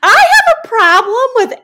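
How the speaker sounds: high and loud, laughing through it. Real, not acted. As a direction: laugh at yourself mid-sentence. Laughing at herself.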